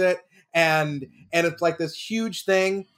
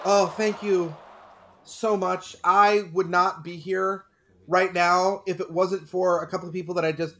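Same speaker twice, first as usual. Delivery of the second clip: mock acceptance speech. Pretend winner thanking people for the award, humbly overwhelmed. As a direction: overcome winner, halting and earnest.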